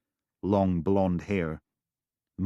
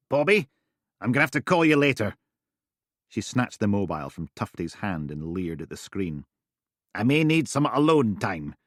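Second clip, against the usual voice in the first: Steele leering; 3 semitones higher, 4 dB louder than usual. Acted. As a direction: brush off the caller eagerly. Steele hangs up, leers.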